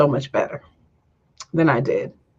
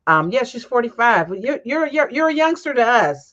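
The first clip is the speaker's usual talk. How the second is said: laughing; 8 semitones higher than usual. Real, not acted. Laughing about cousin's age.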